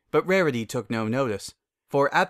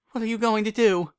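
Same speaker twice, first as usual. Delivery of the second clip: worried Rarity; 10 semitones higher than usual. Acted.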